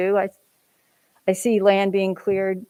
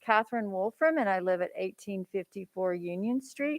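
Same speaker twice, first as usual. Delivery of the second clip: through a face mask; 6 dB quieter than usual. Real, not acted. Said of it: "can you hear me with the mask on?".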